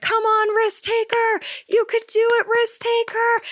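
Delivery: high, cheering encouragement; cheering crowd. Retold or imitated. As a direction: call out like the crowd urging her on. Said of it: "they're like".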